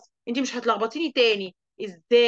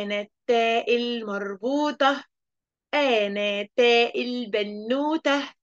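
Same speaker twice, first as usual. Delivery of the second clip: slow, sing-song teasing letter voice; taa marbuta teasing; much slower than usual. Acted. Cheeky letter teasing the pupil, slow sing-song. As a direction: play the cheeky letter taunting slowly.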